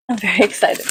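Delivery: giggling through the words; breaking into a laugh mid-line. Real, not acted. Unboxing for viewers, laughing through it. Laughing while saying excited.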